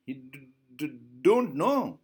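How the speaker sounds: father mimicking the stutter; mock the child's stammer back at her. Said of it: "He is mimicking".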